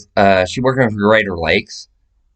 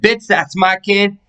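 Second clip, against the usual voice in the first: retold angry snap; 6 semitones higher than usual. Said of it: "I said".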